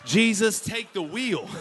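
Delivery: hammed-up relief; relieved whoop. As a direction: celebrate a narrow escape. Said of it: "you're like".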